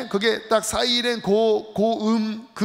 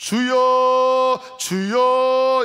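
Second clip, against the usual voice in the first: ringing, trumpet-like call, blown out like a horn; 2 semitones higher, 4 dB louder than usual. Retelling how people deliberately imitate the trumpet sound, crying out trumpet-like. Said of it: "일부러 그 나팔 소리 흉내냅니다".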